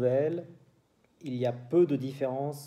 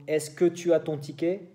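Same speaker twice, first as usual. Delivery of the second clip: French question; 3 semitones higher than usual. Shown as a demonstration. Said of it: "para los franceses".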